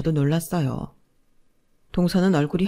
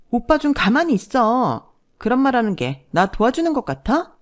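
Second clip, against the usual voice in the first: sharp hushing rebuke; 6 semitones higher than usual. Acted. Wife hushes husband in panic.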